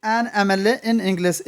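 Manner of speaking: an M L A in English read slowly, an before the vowel sound of M; slow demo reading. Shown as a demonstration. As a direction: spell out an M L A letter by letter, slowly. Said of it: "ए की sound आ रही है".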